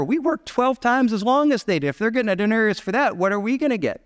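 mock-aggrieved, pressing the point; mild indignant grumble. First-hired workers comparing pay with latecomers, mildly indignant.

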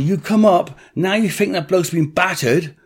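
a mild mock rant; indignant retort. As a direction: throw the accusation back at them. Arguing with police.

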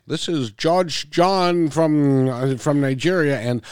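lightly put-on voice of a pompous scammer, drawing out the words; mock scam letter voice. Host mimics a scam letter for the guest, lightly hammed-up. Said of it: "the letters kinda go like this".

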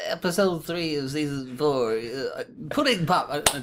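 voice gone odd. Real, not acted. Panelist fumbling an episode reference, voice gone odd. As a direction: let the voice slip strangely, slowing down. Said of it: "I don't know where my voice went there".

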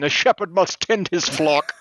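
put-on a light, slow British accent. Podcaster mock-quoting a movie line in light British accent. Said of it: "I was gonna give it, like, a British accent".

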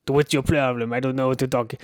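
lightly put-on French accent; a hint of a French guy playing a pigeon. Shown as a demonstration. Demonstrating the pigeon's voice, lightly French. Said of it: "let me do the voice again".

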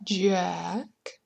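soft, drawn-out, breathy call; eerie spectral whisper; ghost. A narrator's reading. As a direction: moan the name like a ghost. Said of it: "said the ghost".

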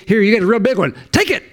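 high-pitched sarcastic giveaway, leaping up at the end; mock handout. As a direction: hand over the prize in mockery, rising sharply. Mocking a free miracle handout.

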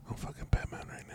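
fast, urgent whisper; frantic whisper. Acted. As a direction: hiss it out in a hurry. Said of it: "Why are you whispering?".

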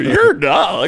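a light mock of a canned robot message; mild imitation of a phone recording; robocall recording voice. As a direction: read it like a stiff automated recording. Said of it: "That's what it sounds like, too".

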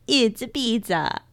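playful mock Italian accent. Co-host trying out something Italian, mock Italian accent. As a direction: put on an Italian accent for fun. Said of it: "Where did that accent go?".

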